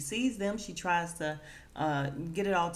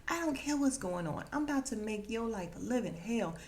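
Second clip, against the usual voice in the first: higher-pitched acted threat; mock pissed off; 4 semitones higher than usual. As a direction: play a touch of jealous fury. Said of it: "and she's pissed".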